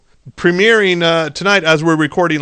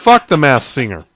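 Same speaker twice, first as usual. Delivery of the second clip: louder, laughing as he blurts it; loud laughing outburst; 5 dB louder than usual. Real, not acted. Host venting about a show he hates, loud laughing outburst. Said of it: "wasn't expecting that blast".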